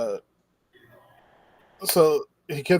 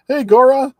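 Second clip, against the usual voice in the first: much higher, louder hawking calls; mock vendors calling; 10 semitones higher, 5 dB louder, slower than usual. Fish sellers competing for the gorilla, high hawking calls. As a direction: call out to sell your fish.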